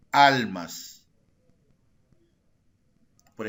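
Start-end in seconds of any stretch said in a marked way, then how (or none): 0.1-1.1 "almas" with a louder first syllable; stress on AL. Shown as a demonstration. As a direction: punch the AL in "almas", let the ending fall. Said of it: "Dónde recae la mayor fuerza de voz en almas". (acento marcado en la primera sílaba de "almas")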